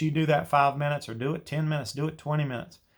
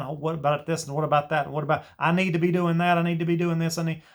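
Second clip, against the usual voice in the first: fast, higher, hurried inner chatter; frantic racing mind; 4 semitones higher, 3 dB louder, faster than usual. Retold or imitated. Teacher imitating a distracted mind, quick and a bit higher. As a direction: rattle off the to-do list like a restless mind. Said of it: "yours is gonna be to all the stuff you gotta get done".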